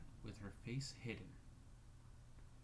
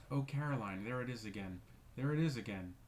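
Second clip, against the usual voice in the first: wild wail; 5 dB louder than usual. Acted. Rebecca wailing to Caroline about the shadow, loud. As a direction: wail it out in terror. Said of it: "burst out in a wild wail".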